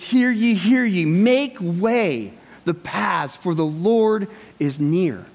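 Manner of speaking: slow, drawn-out herald proclamation; slow mock town crier heralding the Lord; solemn town crier. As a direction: announce it slowly like a royal crier. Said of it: "to be the town crier".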